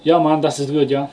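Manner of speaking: jokey Jamaican-German mash-up; mock a Jamaican speaking German; Jamaican German accent. Clowning with co-host, in a put-on Jamaican German accent. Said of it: "I am a Jamaican German".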